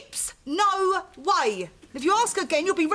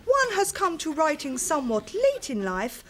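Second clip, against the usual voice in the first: lightly put-on posh lady; plummy upper-class delivery. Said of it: "You don't half saying good".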